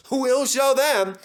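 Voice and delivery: loud, slow and high; determined vow. Acted. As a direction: promise it with grit. Thomas vowing to prove them.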